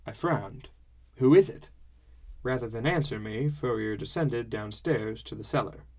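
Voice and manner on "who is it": louder, higher urgent question; anxious question. A narrator's reading. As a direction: ask it sharply, on edge.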